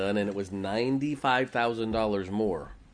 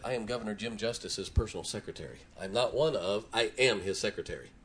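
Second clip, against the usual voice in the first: softer, deliberate self-introduction with quiet pride; proud and precise; 5 dB quieter than usual. Retold or imitated. Secretary introducing herself to the pastor, quietly proud. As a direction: insist on the title, word by word. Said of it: "she said it just like that".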